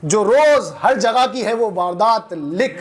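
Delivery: slow, measured mushaira verse delivery; poetry recitation. Acted. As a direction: recite it line by line, pausing and lifting repeats. Recites a protest poem.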